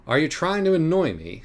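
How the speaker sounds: high, sly, mocking cat; taunting cat voice. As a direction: purr the confession like a smug cat.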